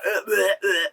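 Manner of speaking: exaggerated retching noises; mock gagging. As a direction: pretend to gag at a stench. Mimics gagging at the smell.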